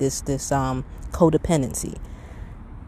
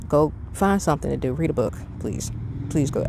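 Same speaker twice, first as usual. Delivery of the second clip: direct; faster than usual. Real, not acted. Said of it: "I'm being direct about that".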